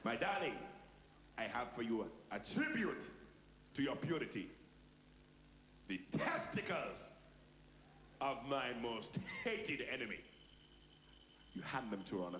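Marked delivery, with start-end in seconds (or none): 0.0-0.6 "My darling" in a put-on African accent; courting bridegroom's African accent. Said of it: "so you change the accent". 1.4-10.2 put-on slow, ceremonial African-accented declaration; solemn African bridegroom, drawn-out words. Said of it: "so you change the accent".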